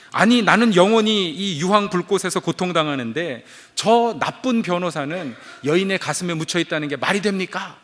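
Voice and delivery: retold protest, starting loud and easing off; indignant yell. Man in hell complaining about the lawyer, indignant yell. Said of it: "이렇게 소리를 질렀습니다".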